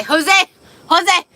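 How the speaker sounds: high, loud joyful calling; excited shout. Real, not acted. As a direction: yell a friend's name with delight. Greeting Jose excitedly.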